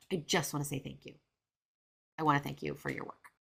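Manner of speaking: understated, composed gratitude; calm, restrained thanks. Retold or imitated. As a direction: keep the fangirl contained and thank her calmly. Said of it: "calmly, as best I can".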